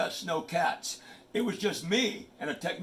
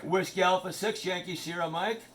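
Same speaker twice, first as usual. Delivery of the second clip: radio call sign. Shown as a demonstration. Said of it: "This is how it works".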